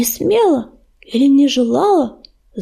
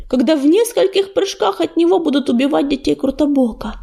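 ordinary delivery

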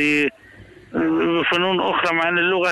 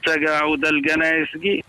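Bedouin Arabic accent, qaf as hard g; 2 semitones higher than usual. Shown as a demonstration. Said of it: "اللهجة البدوية".

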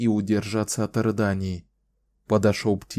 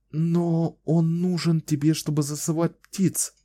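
put-on higher, bright young woman's voice; Kahlan, smiling young woman; 8 semitones higher than usual. A narrator's reading. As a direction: play her hopeful and teasing.

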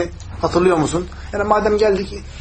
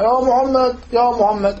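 raised-pitch repeated call; imitated shouting; 5 semitones higher, slower than usual. Bedouin calling to the Prophet, mild mock shout. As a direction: mimic a man hailing, without full volume. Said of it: "Şimdi bu adam bağırıyor".

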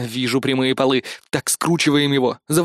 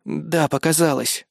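sighing admission; slower than usual. Acted. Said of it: "вздохнул парень".

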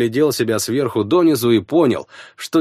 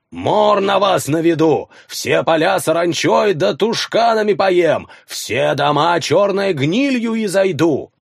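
eldritch horror; 5 semitones higher than usual. Acted. Monster curses the village.

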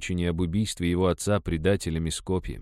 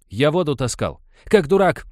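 loud, high mocking yell; mother shouting at her son; 9 semitones higher, 7 dB louder than usual. A narrator's reading. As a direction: shout it in his face. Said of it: "крикнула мать".

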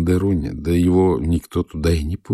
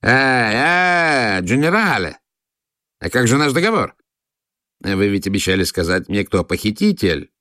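growing anxiety; 3 semitones higher than usual. A narrator's reading. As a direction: panicky call not to leave. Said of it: "закричал мне вслед со всё возрастающим беспокойством". (граф тревожно кричит вслед)

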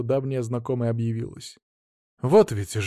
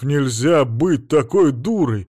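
angry; 2 semitones higher, 6 dB louder, slower than usual. Acted. Husband berates wife.

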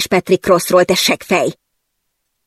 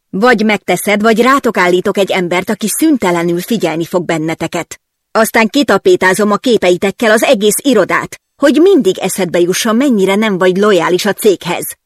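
louder, menacing ultimatum; threatening boss; 2 semitones higher, 4 dB louder than usual. Acted. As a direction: lay out the threat. (fenyegetően, hangosabban)

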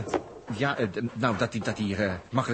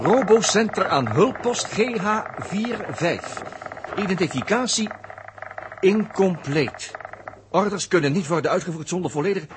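slow machine readout; 4 semitones higher, slower than usual. Acted. Reads machine reply off screen.

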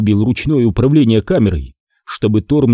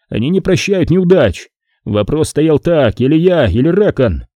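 desperate pleading; 4 semitones higher than usual. Acted. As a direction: beg for your life in panic. Torm justifies himself.

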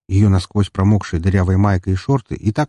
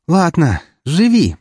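high, louder grudging mercy; gruff pardon; 9 semitones higher, 4 dB louder, slower than usual. Acted. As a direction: spare him with a huff. Furious girl ends chase.

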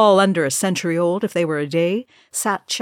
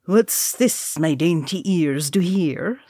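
sly tavern keeper; slower than usual. Acted. Tavern keeper Nori's jovial entrance.

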